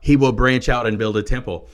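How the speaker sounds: forceful preaching. Real, not acted. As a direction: proclaim it at full preaching force. Preacher driving the point home.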